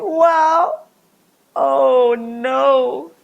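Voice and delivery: loud startled exclaim; shocked cry. Acted. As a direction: cry out as the pot falls. Pot breaks while dancing.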